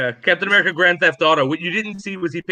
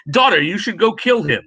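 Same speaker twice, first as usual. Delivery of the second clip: mock Dracula accent; 2 semitones higher, 3 dB louder than usual. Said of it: "But he's like".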